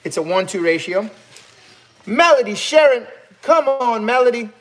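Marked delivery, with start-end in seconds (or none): 2.1-4.5 high, loud call-out to a viewer; delighted exclamation. Real, not acted. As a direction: exclaim the name in happy disbelief. Calling out to a generous viewer.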